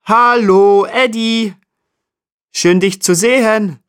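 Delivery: bird voice. Acted. Jackdaw bird voice greets.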